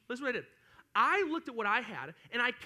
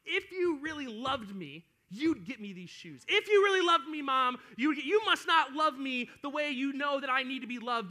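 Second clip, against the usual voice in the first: drawn-out mock guilt trip, surging louder and higher; pleading seven-year-old; 4 semitones higher, 6 dB louder than usual. Seven-year-old guilt-tripping mom for shoes, hammed-up pleading. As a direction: imitate a demanding kid working on mom. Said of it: "I was seven years old".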